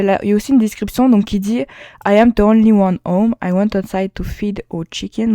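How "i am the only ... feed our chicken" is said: reading English with a heavy French accent. Real, not acted. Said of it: "désolé pour mon accent anglais".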